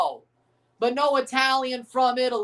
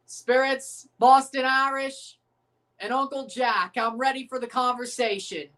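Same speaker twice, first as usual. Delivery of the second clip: Tommy Shelby quote. Retold or imitated. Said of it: "that was a Tommy Shelby quote".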